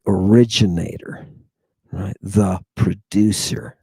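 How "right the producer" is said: slow whispered aside. Real, not acted. Lecturer confiding to his audience, whispering. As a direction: breathe it like a secret.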